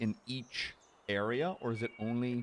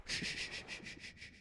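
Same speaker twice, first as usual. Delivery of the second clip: soft urgent shushing; whispering; 15 dB quieter than usual. Real, not acted. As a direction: breathe the shh out. Hushing so fish not spooked.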